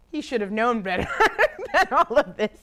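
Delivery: real laughter through a playful accusation; laughing. Real, not acted. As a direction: crack up loudly mid-sentence. Laughing at own mock blame.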